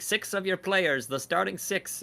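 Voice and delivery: high-pitched little goblin voice; little goblin attendant. Acted. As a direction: give orders as a small goblin, pitched well up. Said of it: "like, a little goblin with".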